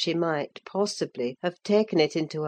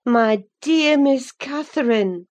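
put-on higher-pitched, restrained address to a young mistress; gentle reproach; 8 semitones higher, 5 dB louder than usual. A narrator's reading. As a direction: hold back the scold, voice lifted. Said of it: "too vividly impressed by her recent kindness to break into a scold".

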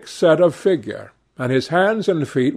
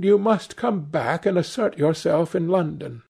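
higher, lightly voiced theatrical mother; a hint of wounded dignity; affected mother; 5 semitones higher than usual.

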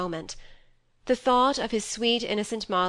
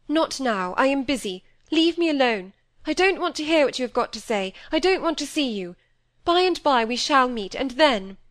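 higher, louder dismissal; harsh refusal; 5 semitones higher, 5 dB louder than usual. A narrator's reading. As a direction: push her away hard. Cynthia sending Molly away.

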